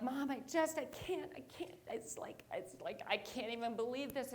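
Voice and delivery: soft, halting plea to mom; imitating a distraught call home; overwhelmed. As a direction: stammer it, mock close to tears. Retold upset phone call home.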